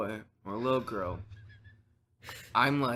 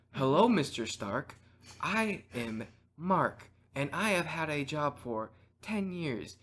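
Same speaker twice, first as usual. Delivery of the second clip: robot voice; slower than usual. Pretend. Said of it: "I don't have a good robot voice".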